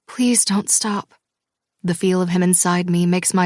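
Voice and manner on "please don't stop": slow, drawn-out Please don't stop; slow pleading. Acted. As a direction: stretch Please out as a desperate plea. Pleading during intimacy.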